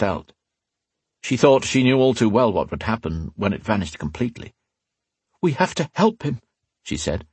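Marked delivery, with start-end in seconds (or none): 5.4-6.4 high voice with fear seeping through; fearful. A narrator's reading. Catherine pleading for fading Alesh, fearful. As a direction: try to hide the fear and fail. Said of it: "failing to keep the fear from her voice".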